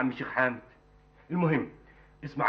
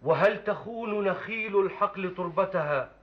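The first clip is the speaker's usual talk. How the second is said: slow, measured classical verse recital; poem recitation; 2 semitones higher, slower than usual. Acted. Young man reciting his poem to the sheikh, solemn recital. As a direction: declaim each line with long pauses between.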